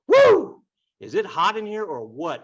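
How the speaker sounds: high, loud swooning whoop; mock swooning girl. Teacher mocking girls' reaction, high excited whoop. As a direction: gush like a fanning schoolgirl. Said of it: "the girls are like".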